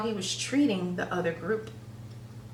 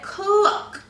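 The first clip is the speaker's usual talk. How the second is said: hen cluck; 10 semitones higher, 3 dB louder than usual. Acted. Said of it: "She looked Gruntly in the eye and said".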